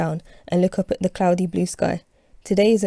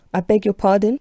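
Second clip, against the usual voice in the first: louder, indignant; voice rising; 3 semitones higher, 6 dB louder than usual. Acted. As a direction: raise the voice at the insult. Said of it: "My voice rises".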